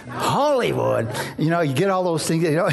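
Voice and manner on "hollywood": slow, stretched-out wondering repeat; slowly savouring the strange idea; drawn-out. Retold or imitated. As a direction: let the word hang, slowly. Father mulls son's answer.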